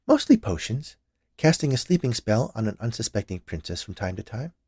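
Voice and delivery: lightly voiced witch musing; a hint of a witch, fondly recalling. Witch character voiced in story.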